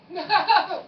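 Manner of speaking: loud laughing refusal. Real, not acted.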